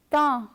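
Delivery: ta with a French nasal vowel; nasal syllable. Shown as a demonstration. Teacher adds T to the sound, nasal French ta. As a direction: let the vowel of ta ring through the nose. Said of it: "When you add T".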